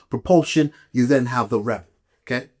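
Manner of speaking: ordinary delivery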